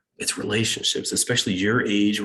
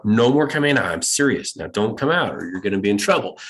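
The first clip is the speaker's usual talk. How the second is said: stern parent losing patience; irritated. Retold or imitated. Parent warning a child out of bed, irritated. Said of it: "we start getting irritated".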